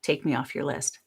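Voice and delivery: flat, clipped brush-off; terse reply to a cold-call email; curt and flat. Retold or imitated. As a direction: say it like you mean it. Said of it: "I say".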